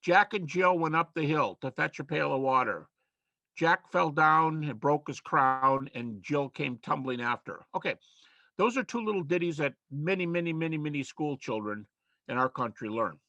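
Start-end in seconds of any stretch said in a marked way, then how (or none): 0.0-7.6 nursery rhyme recital. Shown as a demonstration. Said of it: "Here's another one".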